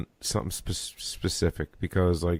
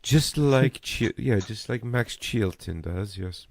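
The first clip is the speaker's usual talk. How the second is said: put-on posh British accent; 2 semitones higher, slower than usual. Mimicking posh driver after demo.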